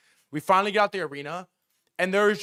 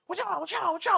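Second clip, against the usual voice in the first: high-pitched, repeated cry without extra volume; mock frantic warning; 12 semitones higher, faster than usual. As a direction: clear the way like a fleeing rider. Acting a frantic escaping rider.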